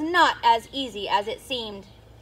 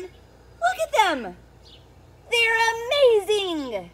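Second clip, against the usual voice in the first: slow, higher, full of wonder; awed; 6 semitones higher, slower than usual. Acted. Norman the slug admiring the snails, slow and awed. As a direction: gaze up at them in awe. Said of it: "said Norman".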